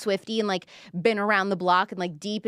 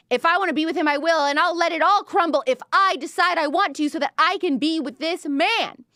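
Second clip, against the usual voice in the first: furious defiance; 6 semitones higher than usual. Retold or imitated. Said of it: "she's so angry".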